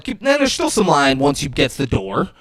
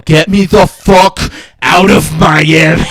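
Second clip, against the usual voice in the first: panicked demand; 5 dB louder than usual. Retold or imitated. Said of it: "starts having a panic attack".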